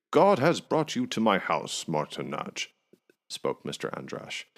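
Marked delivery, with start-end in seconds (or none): 0.1-2.7 higher, louder eager greeting; eager welcome. A narrator's reading. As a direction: greet him like royalty, beaming. Androsh greeting guest eagerly.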